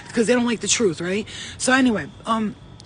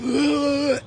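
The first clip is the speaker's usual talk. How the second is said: snake's groan; 6 semitones higher than usual. Retold or imitated. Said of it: "And he was like".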